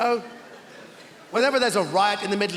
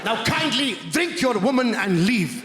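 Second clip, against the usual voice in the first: haughty dismissal. Retold or imitated. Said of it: "He went".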